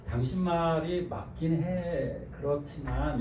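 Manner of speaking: slow, tender yes-but; gentle concession. Shown as a demonstration. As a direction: ease in kindly before the but. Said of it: "이렇게 얘기하셔야지".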